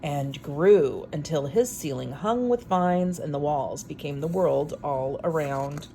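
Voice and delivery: lively read-aloud storytelling voice; story narration. A narrator's reading. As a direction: read it like a bedtime picture book. Reads picture book aloud.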